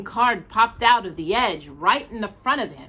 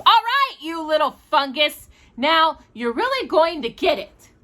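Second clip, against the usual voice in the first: mock threat; 8 semitones higher, 3 dB louder than usual. Walter, hit by ball, threatens brother.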